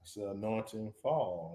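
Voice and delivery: low and slow, kept soft. Real, not acted. Singer naming the song for the host, low. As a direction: say it low, unhurried. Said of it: "Why you so low?".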